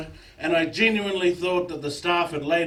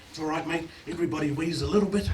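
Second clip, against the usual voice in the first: much softer, quick reassuring murmur; mock whisper; 4 semitones lower, 7 dB quieter, faster than usual. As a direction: soothe them, almost a whisper. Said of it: "We're actually whispering to them".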